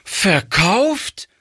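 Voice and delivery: put-on high, rising shocked child's question; horrified child. A narrator's reading. Girl hears the vase was sold, high shocked child voice. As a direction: gasp it out in a child's disbelief. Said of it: "rief es ganz entsetzt".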